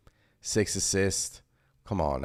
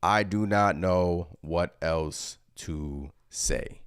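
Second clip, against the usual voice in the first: quoting Thibodeau; much slower than usual. Retold or imitated. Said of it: "That is from Stefan Bondi, Tom Thibodeau".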